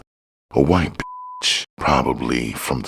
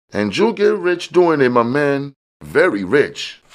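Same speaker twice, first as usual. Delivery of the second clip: high, smooth hustler voice; a pitched-up, easygoing street dealer bragging; high-voiced dealer showing off; George, slick dealer; 4 dB louder than usual. George promises riches.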